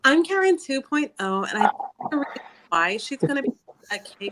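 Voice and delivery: lightly put-on Daisy Duck-like Karen; annoying Karen. Mock Karen explaining herself to the hosts, lightly annoying voice. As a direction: play a mildly irritating, entitled Karen. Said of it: "talks like fucking Daisy Duck".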